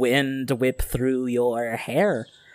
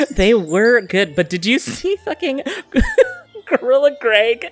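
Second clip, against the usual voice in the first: excited gushing; 13 semitones higher, 7 dB louder than usual. Acted. GM plays gushing teammate.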